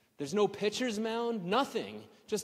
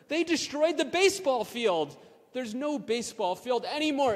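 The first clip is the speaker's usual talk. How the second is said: incredulous rant about soccer; outraged disbelief; 6 semitones higher than usual. Real, not acted. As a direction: demand it of the world, appalled. Outraged that field was replaced.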